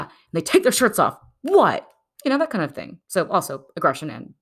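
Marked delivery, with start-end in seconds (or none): 1.4-1.9 high, loud challenge; mock macho bro. Shirtless guy in a street fight, mock aggressive bro. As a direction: throw it out like a bro picking a fight.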